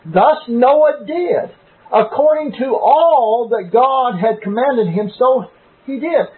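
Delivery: slow, weighty reading with "all" leaned on; stress on all. Shown as a demonstration. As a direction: read it slowly and lean hard on "all". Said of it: "Notice the word "all" there".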